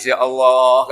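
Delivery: mild mock lament, drawn out; imitated tearful plea. Preacher voices the Prophet crying to Allah, mildly tearful. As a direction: plead as if weeping, lightly acted. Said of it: "Nabi mendengarnya nangis".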